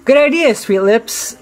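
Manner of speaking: seductive. A narrator's reading. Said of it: "switched into a very different mood".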